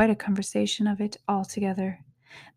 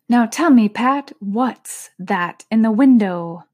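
rabbit master voice; 8 dB louder than usual. Acted. Rabbit questioning servant.

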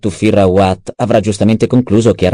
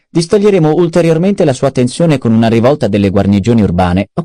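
a slightly higher, lively voice for Peter's lines; lightly voiced schemer; 5 semitones higher than usual. Adviser briefing the baron on the duke's possible escape, lightly voiced. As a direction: lay out the options with lifted pitch.

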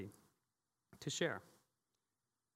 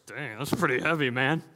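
awed churchgoer; 9 dB louder than usual. Retold or imitated. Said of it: "The last service was like".

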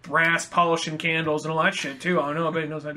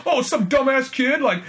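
higher, laughing mock complaint that climbs at the end; sarcastic Aquaman; 6 semitones higher, 3 dB louder than usual. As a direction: whine it as if he's always being blamed. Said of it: "him just being so defensive".

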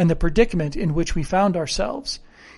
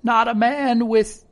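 slow, higher, halting question; alarmed castaway gasp, understated; 5 semitones higher, 5 dB louder, slower than usual. A narrator's reading. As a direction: falter in dread, drawing it out. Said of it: "he gasped".

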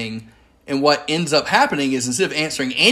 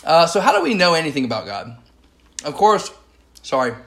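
talking through a mouthful of popcorn; words around a bite of popcorn; munching popcorn; 2 semitones higher, faster than usual. Real, not acted. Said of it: "I'm eating popcorn right now".

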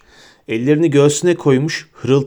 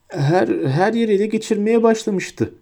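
high, rushed, all in one breath; breathless Pettigrew; 9 semitones higher than usual. A narrator's reading. Pettigrew gasps out excuses to Black, all in one breath. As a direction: blurt it out before he stops you. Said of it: "dedi Pettigrew tek solukta".

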